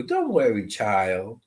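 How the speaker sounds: put-on gentle lilt dropping low on child; a grandma's soothing sing-song; soft lyrical grandma. Medium imitating the grandmother, lightly soft and lyrical. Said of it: "She had that kind of a way of speaking".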